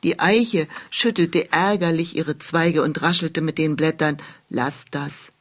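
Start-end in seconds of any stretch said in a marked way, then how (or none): 4.5-5.3 much softer, lower hush; whispering. Acted. Annoyed oak hushing the crying witch, softly. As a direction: hush it low like an old tree. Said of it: "flüsterte sie".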